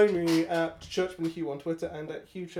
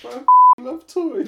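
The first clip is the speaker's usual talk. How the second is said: big slow announcement; 9 semitones higher, 14 dB louder, much slower than usual. Acted. Mock podcast title announcement.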